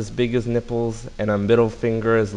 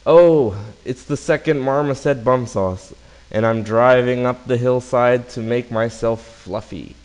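marmoset voice; 5 dB louder than usual. Acted. Second marmoset answers.

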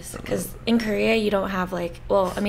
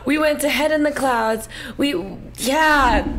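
louder laughing protest; 6 semitones higher, 5 dB louder than usual. Real, not acted. Laughing protest over name.

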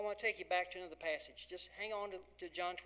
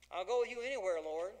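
boastful Peter; 2 semitones higher, 6 dB louder than usual. Acted. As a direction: blurt it out like a cocky disciple. Peter's boastful promise voiced.

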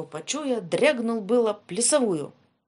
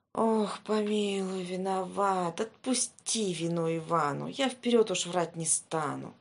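pleading fear. Acted. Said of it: "Иван задрожал".

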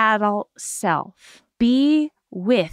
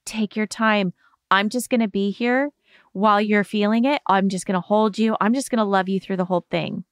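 reassuring. Shown as a demonstration. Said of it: "it's all about".

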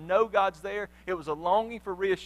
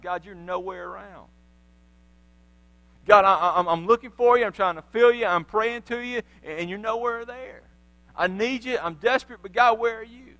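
much louder, pleading cry to an absent God; desperate prayer; 6 dB louder than usual. Acted. A believer praying in the wilderness, desperate loud plea. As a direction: beg God to show up.

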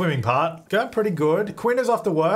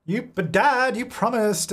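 put-on whiny kid; 7 semitones higher, slower than usual. Kid whining at dad.

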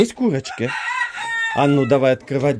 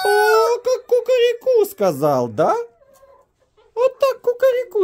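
rooster imitation; 3 dB louder than usual. Imitating rooster's crow, high.

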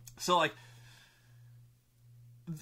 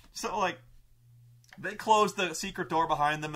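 ordinary talk, nothing marked

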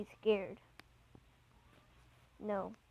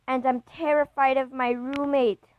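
loud frightened confession, voice pitched up; terrified outburst; 3 semitones higher, 9 dB louder than usual. Acted. Boyfriend alone in a graveyard at night admits fear, loud and frightened.

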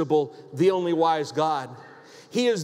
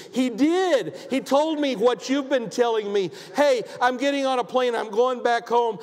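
tearful joyful mom; 5 semitones higher than usual. Retold or imitated. Mother calling her daughter from the airport floor, overjoyed and tearful. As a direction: blurt it out through happy tears. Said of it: "She's crying and she's saying".

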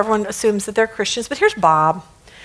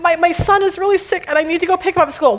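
pleading; 5 semitones higher, faster than usual. Acted. Employee pleading with the boss.

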